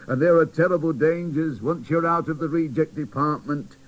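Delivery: slow, grave warning bear; teddy bear warning the boy doll, slow; doubtful teddy bear. Acted. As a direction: warn him kindly of dangers.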